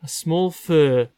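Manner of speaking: measured Geordie story reading; reading aloud. Acted. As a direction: read the passage out with care. Continues reading the passage.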